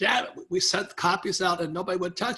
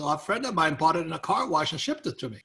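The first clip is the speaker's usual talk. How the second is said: put-on Dallas accent. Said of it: "thick Dallas accent".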